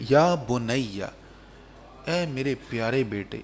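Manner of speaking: tender fatherly endearment, trailing off soft; very loving. Acted. Father calls his dear son, lovingly. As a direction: gently address a beloved child. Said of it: "بڑے پیار سے کہا".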